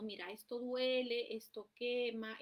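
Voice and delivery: put-on slow, patient explaining to a toddler; gentle explanation. Shown as a demonstration. Parent gently warns a small child about danger, slow and patient. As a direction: lay it out calmly, word by word. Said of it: "hablar con ellos suavemente".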